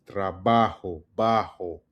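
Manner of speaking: "Trabajo, bajo" slow, j as a controlled breath; breathy Spanish j. Shown as a demonstration. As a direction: breathe the j of "bajo" from the back of the throat. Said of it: "It's a controlled breath".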